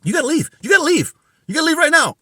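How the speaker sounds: retold angry order. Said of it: "gets in my face and said".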